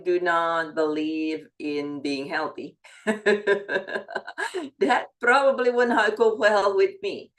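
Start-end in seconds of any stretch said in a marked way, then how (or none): 3.0-7.3 laughing. Real, not acted. Laughs at own joke.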